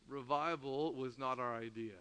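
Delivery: low, soft statement; quiet reflection. Real, not acted. Preacher opening a new point after a pause, quiet reflection. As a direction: say it hushed, to let it sink in.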